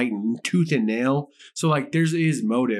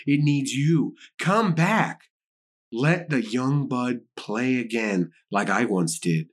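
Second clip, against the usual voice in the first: ominous letter reading; 2 semitones lower, slower than usual. A narrator's reading. Podcaster reads the watcher's threatening letter aloud, slow and ominous. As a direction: read it deliberately, dragging out the threats.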